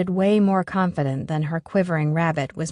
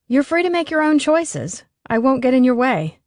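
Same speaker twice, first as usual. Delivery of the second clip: agitated; 7 semitones higher, 4 dB louder than usual. A narrator's reading. Allie upset.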